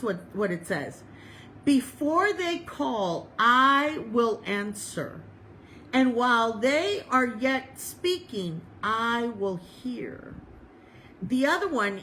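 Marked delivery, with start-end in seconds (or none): 1.6-10.3 slow, measured Bible reading; deliberate, drawn-out sacred reading; scripture reading. Real, not acted. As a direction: read the verse out slowly with weighted pauses. Reads scripture aloud.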